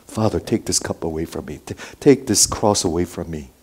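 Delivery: low, hushed, earnest plea; earnest prayer. Acted. Preacher voicing Jesus praying in Gethsemane, earnest and hushed. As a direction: pray it softly and low, pleading. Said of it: "earnestly prayed".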